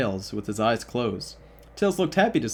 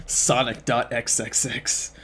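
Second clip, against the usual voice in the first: slow eerie whisper of the filename; slow creepy whisper, no voice at all; slower than usual. Pretend. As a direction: breathe it out slowly with no voice.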